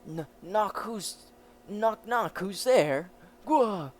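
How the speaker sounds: hammed-up door knock; loud knock-knock. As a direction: call through the door, then burst out. Acted knock-knock scene.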